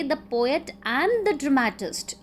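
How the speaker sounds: "the poet and the dramatist" with both "the" slowed and marked; slow and deliberate on both "the"s; stress on the articles. Shown as a demonstration. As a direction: lean on each "the" in "the poet and the dramatist", slowly. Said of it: "adding the definite article before both".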